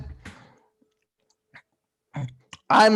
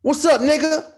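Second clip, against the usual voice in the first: mock greeting; 9 semitones higher than usual. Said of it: "always tricky".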